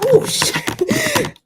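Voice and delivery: sudden high yelp of surprise; startled curse. Real, not acted. Streamer yelping as something goes wrong on camera. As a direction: caught off guard, voice jumps up.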